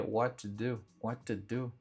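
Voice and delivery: "what to do" with a separate t and d, not linked; wrong separated sounds. Shown as a demonstration. Teacher showing the wrong unlinked version. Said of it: "Dá uma cacofonia".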